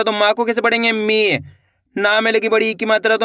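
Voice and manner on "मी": मी with a long, held ee; drawn-out vowel. Shown as a demonstration. Teacher shows how the long-ee sign is read, मी drawn out. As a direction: stretch the ee in मी. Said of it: "बड़ी ई की मात्रा को खींच के पढ़ा जाता है".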